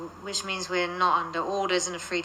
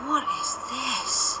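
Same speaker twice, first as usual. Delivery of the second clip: slow, higher, wondering; awed question; 5 semitones higher, much slower than usual. Acted. Parker stares at the site, slow awed question. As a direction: ask it in slow disbelief. Staring at the strange place.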